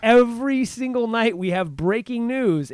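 slow, laughing mock newsreader line; mock laughing anchor. Friend retelling a laughing TV host, mock laughing. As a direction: imitate a giggling anchor. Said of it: "he's laughing hysterically".

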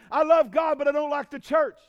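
mocking quote. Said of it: "ridiculous mindset that says".

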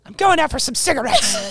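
high, laughing breezy farewell; hammed-up high voice through laughter; mock departing mom. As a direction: toss it off like a mom who won't return. Mock mother leaving forever.

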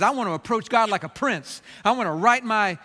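mildly indignant, arrogant demand to be heard; arrogant challenge. Acted. Job takes his complaint to God, arrogantly. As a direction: press the case with a touch of defiance. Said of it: "he comes before God so arrogantly".

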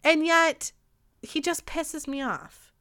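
venting real anger about him; angry rant. Real, not acted. Podcaster venting anger about a rapper at Coachella, heated. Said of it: "it makes me so angry".

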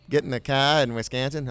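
half-hearted Wisconsin accent; tentative go at Wisconsin talk. Shown as a demonstration. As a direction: flatten the vowel in car, Wisconsin-style. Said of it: "I'm trying to do a Wisconsin accent".

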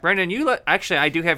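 loud, bright hello to Brendan; joyful reunion. Real, not acted. Hostess greets him loudly.

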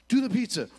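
loud, urgent do the pizza; buddy yelling instructions. Retold or imitated. Buddy yelling at falling friend, loud and urgent. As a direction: shout it after him as he falls.

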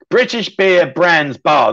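slow tongue twister, breaking into laughter; laughing through it. Shown as a demonstration. Host retrying the viewer's tongue twister, laughing. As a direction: stumble through it while laughing. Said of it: "That's a bit of a tongue twister".

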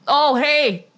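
put-on cheery Midwest neighbour, Midwest accent. Introducing a friend named Bob, chirpy Midwest accent. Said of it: "I'm from the Midwest".

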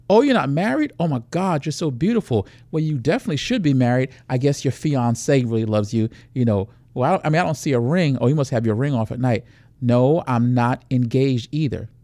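lightly voiced predator chatting up a woman; acted nightclub pickup. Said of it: "walk you through a quick scenario".

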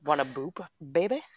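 seductive crooner voice; deep soul-singer voice. Pretend. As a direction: croon it like a love ballad.

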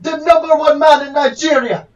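hammy fake Nigerian accent; a put-on Nigerian lawyer voice. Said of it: "this is not a Nigerian accent".

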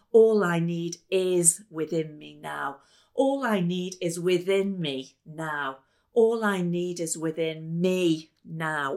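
slow loud declaration of the same line. Shown as a demonstration. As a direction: proclaim it with energy. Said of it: "You emphasize different words".

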